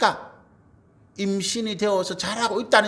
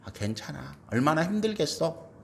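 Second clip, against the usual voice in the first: soft, lowered mock consolation; consoling; 3 semitones lower, 5 dB quieter than usual. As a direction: console someone gently, starting very quietly. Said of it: "사람들 앞에 우리 위로합니다". (나직이 위로하듯)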